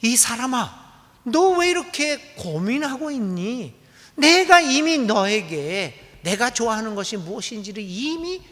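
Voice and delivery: a mild, kindly scold from above; light answer. Acted. God answering the worried people, lightly chiding. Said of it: "매우 경쾌한 답변을 주십니다".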